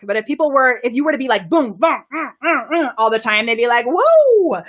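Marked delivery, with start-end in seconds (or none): 1.5-2.9 punchy mimicked booms and grunts; rapid-fire mock hits; imitated punching noises. Shown as a demonstration. Imitates relentless hard-hitting coaching. 3.9-4.6 loud, high mock "whoa"; overwhelmed reaction. Imitates overwhelmed audience reaction.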